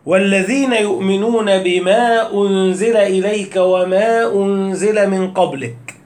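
slow measured Quran recitation. Shown as a demonstration. Teacher recites to students, slow measured chanting. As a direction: recite it slowly to show the madd. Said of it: "هات أول صفحة في القرآن بعد الفاتحة".

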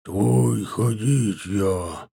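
slow, low foreigner's broken Russian; halting, heavily foreign Russian from a wounded man. A narrator's reading. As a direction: labour through bad Russian word by word. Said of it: "на ломаном, очень плохом русском позвал".

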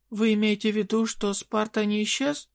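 high desperate queen voice; pleading fairy queen. Acted.

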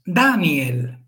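Daniel drawn out slowly in three syllables; slow Daniel, ni-el kept apart. Shown as a demonstration. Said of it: "ni es débil". (Daniel lento, en tres sílabas)

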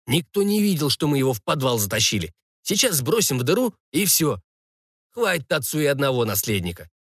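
lightly voiced thug, pitch jumping at phrase starts; assured conspirator. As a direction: reassure your accomplice while plotting. (уверенный злодей, слегка сыгранный)

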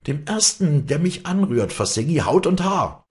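high, loud, fierce warning; shouted threat. A narrator's reading. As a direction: scream a threat to hold off attackers. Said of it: "schrie sie".

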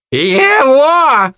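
a high, loud squeal of one word; shrieked. A narrator's reading. Harpy Kai shrieks her choice at the thug, high loud squeal. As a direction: screech it like a bird of prey. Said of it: "взвизгнула женщина".

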